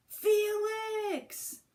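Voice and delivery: sharp, high, loud yell of a name. A narrator's reading. Mom yelling at Felix after the spill. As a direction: call him out hard across the kitchen. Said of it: "yelled his mom".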